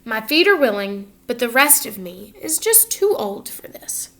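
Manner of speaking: words fade into a whispered sigh; an old peddler sighing, whispered at the end; weary sigh. Acted. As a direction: let it sink from the voice into a tired whisper. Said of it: "he finally said with a sigh".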